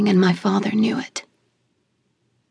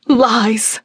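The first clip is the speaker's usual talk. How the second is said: angry retort. Acted. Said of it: "Mother fired back".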